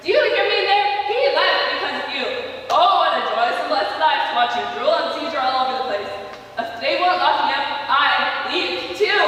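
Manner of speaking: very loud, high, raw screaming; screaming rage. Acted. Mother screaming at her son that his father left, enraged. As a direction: scream it right into his face.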